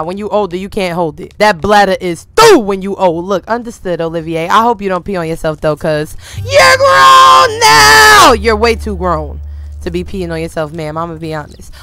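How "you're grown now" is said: higher, louder, slow exaggerated scold; hammed-up drawn-out holler; mock yell. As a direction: stretch it out like a fake scolding.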